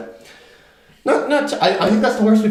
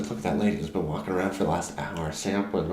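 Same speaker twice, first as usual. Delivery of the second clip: much lower and much softer, like talking behind someone's back; hushed gossip; 9 semitones lower, 11 dB quieter than usual. Retold or imitated. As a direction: keep it down so the lady can't hear. Coworkers gossiping about a customer.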